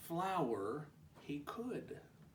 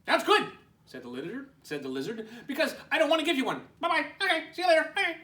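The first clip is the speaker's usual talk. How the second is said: 1 giggly lizard; 12 semitones higher, 8 dB louder, much faster than usual. Acted. Lizard laughing, rushing.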